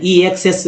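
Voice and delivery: ईएक्सएस opened with a separate long ee; wrong reading. Shown as a demonstration. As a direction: put "ee" before "ksess" in ईएक्सएस. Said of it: "नहीं पढ़ेंगे".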